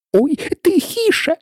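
high, slow anxious hush; scared half-whispered plea; frightened whisper. A narrator's reading. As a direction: shush her in alarm. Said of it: "злякано зашепотів кролик".

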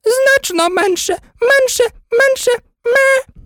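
very high, squeaky voice turning into a sheep's bleat; Queen turning into a sheep, squeaky bleating repeat. A narrator's reading. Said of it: "повторила пискливо".

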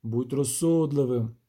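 slow and measured; unhurried, deliberate plea to reason; slowly. Acted. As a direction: drag it out calmly, patient. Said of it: "повільно промовив".

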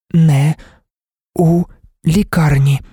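high monotone, word ... by ... word; unmodulated, choppy speech. A narrator's reading. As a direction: deaf woman speaking in separate, evenly pitched words. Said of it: "Вона вимовляла немодульовано й уривчасто".

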